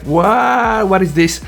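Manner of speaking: drawn-in, wondering exclamation; amazed reaction. Retold or imitated. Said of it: "The moment I saw this, I was like".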